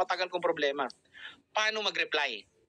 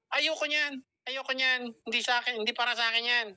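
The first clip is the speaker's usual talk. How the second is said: higher-pitched mock refusal; acting out an unwilling invitee's brush-off; negative refusal; 5 semitones higher than usual. Invitee turns down the coach's invitation, negative. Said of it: "O, negative".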